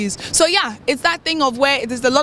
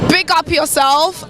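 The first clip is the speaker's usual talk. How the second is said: slow London shout-out with a lift in pitch; London accent; 4 semitones higher, slower than usual. Real, not acted. Guest signing off to viewers, London accent. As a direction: let the London accent come through, unhurried. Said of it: "My accent has just come".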